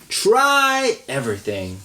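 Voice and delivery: loud, slow chanted group answer; class chorus. Acted. Children answering the teacher together, slow loud chant. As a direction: chant it back like a whole class.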